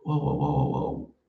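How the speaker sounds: low string of wahs, trailing off; dismayed wow-wow. Real, not acted. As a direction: groan wah-wah-wah, low and fading. Cringing at his old intro.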